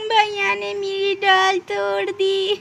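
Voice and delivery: slow, high tearful complaint; whiny tearful child; crying child. Acted. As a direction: sob it out to mother.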